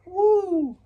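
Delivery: loud, high cheer of triumph; excited whoop. Real, not acted. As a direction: let out a big celebratory woo. Celebrating his six and oh record.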